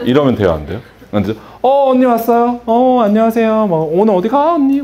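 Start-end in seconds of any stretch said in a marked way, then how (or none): 1.6-4.8 high, bright-eyed welcome to a regular; bubbly friendly greeting. Shown as a demonstration. Stylist greeting a club-going regular, high and excited. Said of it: "막 이래야지".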